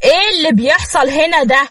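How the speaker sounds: stunned husband bursting out at the scene he finds; shocked. Acted. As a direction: catch him walking in on something unbelievable. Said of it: "وقال بصدمة".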